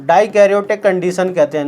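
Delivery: slow, deliberate, stress on Dikaryotic; slow emphasis. Shown as a demonstration. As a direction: spell it out slowly so they remember Dikaryotic. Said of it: "याद रखना". (धीरे और ज़ोर देकर Dikaryotic)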